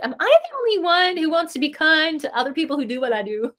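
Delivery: laughing through the question; giggling as she asks it; laughing mock disbelief; laughing quote. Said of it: "I'm like".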